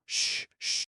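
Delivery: sharp whispered shh; startled shushing. A narrator's reading. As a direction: hush someone fast, in a breathless whisper. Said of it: "she warned in startled sibilance".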